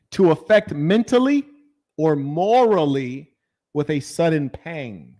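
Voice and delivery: slow, deliberate definition read; dictionary reading. Acted. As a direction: read each definition out slowly.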